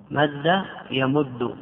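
slow, careful مد يمد; slow spelled-out demo. Shown as a demonstration. Teacher listing the verb forms for students, slowly. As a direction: lay out مد يمد syllable by syllable. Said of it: "لذلك نقول".

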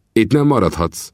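Vinetú sternly calling the Kiowa chief to order; firm, commanding chieftain; stern rebuke. Acted.

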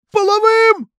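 Половым spelled out loud and hard. Acted. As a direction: hammer Половым syllable by syllable. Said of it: "громче и по слогам".

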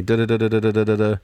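rapid even run of "da"; mock number-generator noise. Host playing the number guy before picking, rattling mechanical syllables. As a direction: rattle it off like a machine counting.

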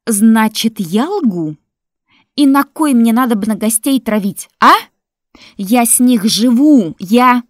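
loud, high frantic yelling; hysterical shouting. Acted. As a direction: scream your defense. Widow screaming in defense.

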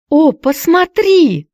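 high, slow awed cry; excited cry. A narrator's reading. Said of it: "взволнованно кричала Хайди". (взволнованный возглас)

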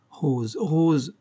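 prénom répété, plus haut; reproche choqué. A narrator's reading. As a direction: rappeler à l'ordre, désolée. Florence shocked, reproaching Rose. (protestation peinée)

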